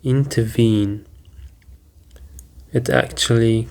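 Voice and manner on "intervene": "Intervene" said carefully as in-ter-VENE; pronunciation model. Shown as a demonstration. Teacher repeats the word to show pronunciation, careful in-ter-VENE. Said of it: "it's pronounced like intervene".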